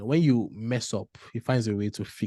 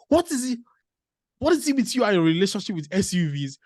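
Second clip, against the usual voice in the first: imitating the wife's teasing whisper, pitched higher; mock whisper; 9 semitones higher than usual. Husband retelling his wife whispering about his small cars. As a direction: hush the question like a playful accusation.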